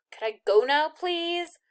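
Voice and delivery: rising, pleading please; impatient. A narrator's reading. Girl pressing the soldier, a touch impatient. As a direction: push to leave, impatient. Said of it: "she asked impatiently".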